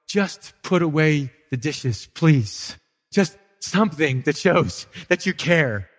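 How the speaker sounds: put-on slow, worn-out pleading to the kids; a tired parent asking one last time; slowed, drained mock plea; weary plea.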